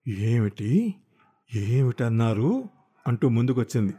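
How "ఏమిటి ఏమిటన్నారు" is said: menacing disbelief. Acted. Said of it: "పిడికిళ్ళు బిగుసుకున్నాయి".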